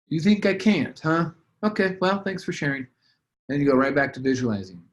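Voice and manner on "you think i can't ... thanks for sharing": high, airy, brushing it off; answering the doubting inner voice, high and breezy; breezy dismissal. Pretend. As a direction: wave the doubt away lightly, much higher. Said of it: "So you say".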